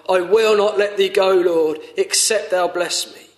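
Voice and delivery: urgent heartfelt pleading; fervent plea. Shown as a demonstration. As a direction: beg it as your own prayer to the Lord. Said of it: "Is that how you are?".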